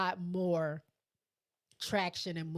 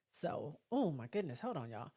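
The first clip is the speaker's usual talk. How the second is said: fighting back tears; choked up; 2 semitones lower, 4 dB quieter than usual. Real, not acted. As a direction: voice catching with emotion. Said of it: "I don't know why I'm getting choked up".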